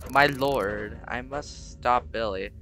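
lightly voiced solemn priest, slow; a hint of a grave priest vowing to act. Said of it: "I don't know why my voice got lower".

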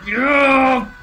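very high slow yelled taunt; triumphant shout. Real, not acted. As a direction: shout it out in victory.

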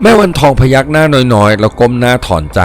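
plain reading voice

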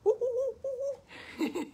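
high repeated hooting; imitated flamingo call. Copying the flamingo for children, high hoots. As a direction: hoot high in quick little bursts.

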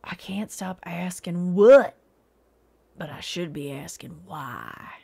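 slow voiceless whisper; whispered self-mocking aside. Real, not acted. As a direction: lean in and whisper it.

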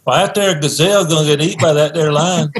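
mock nature narrator in Southern accent. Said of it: "you never hear a Southern accent".

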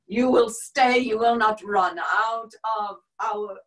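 loud command. Acted. Nazi officer forbidding her to run, loud command. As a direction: lay down the order loudly, drawing it out.

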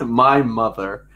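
slow, drawn-out deadpan; deadpan answer, slowed. Real, not acted. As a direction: let it hang slowly.

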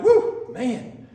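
a playful wince, half laughing; mock recoil. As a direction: pull back and tease him about his breath. Recoiling from old man's breath.

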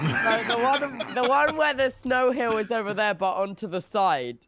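slowed-down repeat. Real, not acted. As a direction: say it again slowly, straining to be understood. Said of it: "can you say it again slower".

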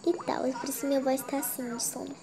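sleepy, half-awake delivery. Real, not acted. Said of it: "Você deve estar estranhando minha voz".

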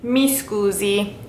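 slow, careful "Mi scusi" with a clear double s; slow Italian. Shown as a demonstration. Teacher modelling "Mi scusi" slowly for travellers. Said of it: "say more formally".

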